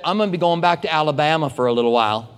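mock Southern accent from Alabama. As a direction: retell it with a touch of Alabama. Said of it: "you can tell by certain things that are said".

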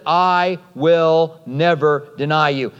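slow, word-by-word pledge on "I will never deny you"; emphatic vow. Acted. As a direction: space out "never deny" as a solemn promise. Peter's acted vow to Jesus.

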